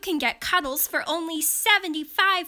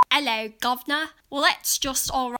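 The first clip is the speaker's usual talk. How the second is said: put-on Cockney accent; much faster than usual. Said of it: "accents I can portray authentically".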